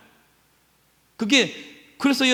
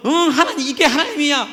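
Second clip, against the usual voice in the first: higher, louder, challenging God; talking back, pointing a finger; mock defiant retort; 6 semitones higher, 3 dB louder, faster than usual. Believer defiantly challenging God, raised and sharp. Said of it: "하나님께 대들고".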